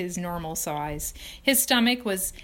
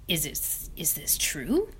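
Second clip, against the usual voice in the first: hushed disbelief. Acted. Rat stunned by news.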